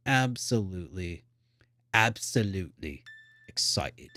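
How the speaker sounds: lightly put-on British accent, fading out. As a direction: slip into a mild British accent. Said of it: "slipped into a British accent for a second".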